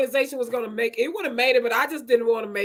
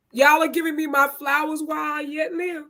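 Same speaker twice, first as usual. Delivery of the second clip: tearful; 3 semitones higher than usual. Real, not acted. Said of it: "God, I feel the tears".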